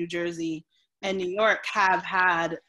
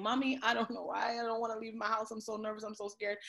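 scared plea; 3 semitones higher, 4 dB quieter than usual. Retold or imitated. Telling her mother she's scared.

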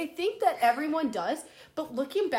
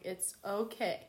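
softer, slow self-reassurance; calming myself; 5 semitones lower, 9 dB quieter, slower than usual. Retold or imitated. Speaker soothing herself in the store, softer and slow. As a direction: talk yourself down under your breath. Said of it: "trying to calm myself down".

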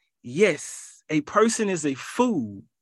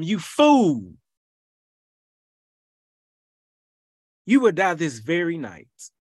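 God's voice. Acted. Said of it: "But God said to him".

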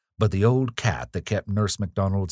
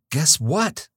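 imploring; 10 semitones higher, 4 dB louder than usual. Acted. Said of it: "asked Evelyn imploringly".

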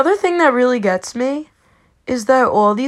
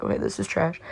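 retold verdict; 3 semitones lower, 8 dB quieter, faster than usual. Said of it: "I'm like".

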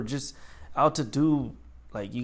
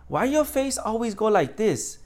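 higher, slow mocking question; coworker impression; 6 semitones higher, slower than usual. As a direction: imitate a teasing coworker, drawn out and high. Imitates coworker mocking his face.

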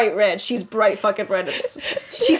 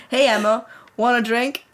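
pop singer voice. Acted. Reader mistakenly voicing the bully as the crush, casual boyish voice. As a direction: say it evenly, as the boy would. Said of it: "This is not the singer".

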